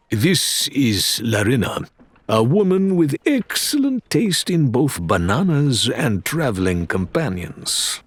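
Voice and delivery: a hint of a charming first mate, slow and amused; lightly voiced Faisal. First mate introduces Larinna to his captain, lightly voiced, amused. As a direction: introduce her with a teasing flourish.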